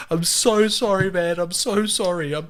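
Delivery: high, gushing mock apology; profusely apologetic. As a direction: imitate a mate falling over himself to apologise. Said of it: "Jordan was so apologetic".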